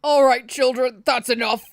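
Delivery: lightly voiced indulgent old authority; genial elder. Elder tells the children that's enough, genially firm. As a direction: gently call the squabble to order.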